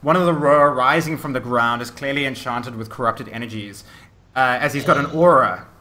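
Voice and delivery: energetic battle scene-setting; game master narration. Acted. Game master describes undead charging the players, dramatic narration. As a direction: drive the action forward with dramatic emphasis.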